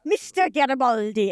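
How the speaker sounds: slow, drawn-out yelled-out name; imitated yell. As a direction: yell it out as a character warm-up phrase. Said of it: "to yell out".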